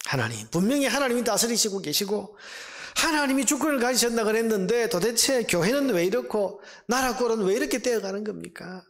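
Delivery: acted grievance, demanding answers; resentful complaint. Believer questioning God's rule, resentful complaint. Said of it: "하나님 앞에 원망하고 불평합니다".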